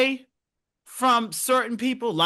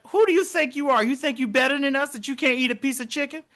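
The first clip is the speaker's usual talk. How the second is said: indignant onlooker; 5 semitones higher than usual. Retold or imitated. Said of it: "people gonna look at me like".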